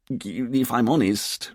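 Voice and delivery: slow, faltering, giving up; quiet despair. Acted. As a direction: trail into helpless embarrassment. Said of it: "Richard said in quiet despair".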